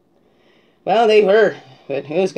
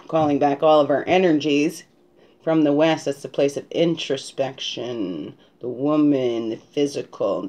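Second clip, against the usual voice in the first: ritual invocation; 2 semitones lower than usual. Acted. Calls in the four directions.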